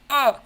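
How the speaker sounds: sudden high loud yelp of fright; startled yelp. Real, not acted. Streamer yelps loudly as a ball almost shows a shiny. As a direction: jump at the screen with a yelp. Shiny hunt jump scare.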